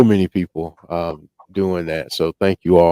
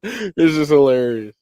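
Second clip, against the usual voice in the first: chipmunk voice; 7 semitones higher than usual. Real, not acted. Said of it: "he sounded like a really fast chipmunk".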